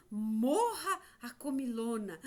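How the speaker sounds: loud, lightly acted exclamation; forceful story cry. Teacher repeating the insect's harsh line, loud forceful cry. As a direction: declare it with force on the first word. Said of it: "que forte isso".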